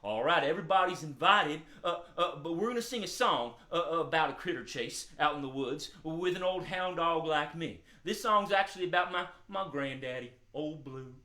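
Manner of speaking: lightly voiced puppet dog, a bit low; a hint of an easygoing hound character; friendly hound dog. Calmed dog thanking children for helping, friendly hound voice.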